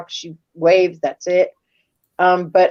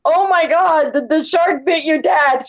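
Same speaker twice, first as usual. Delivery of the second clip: retold panic, pitched higher; mock freak-out; 5 semitones higher than usual. Mom crying shark at the movies, mock freak-out. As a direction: imitate an alarmed outburst. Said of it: "She freaked out so bad".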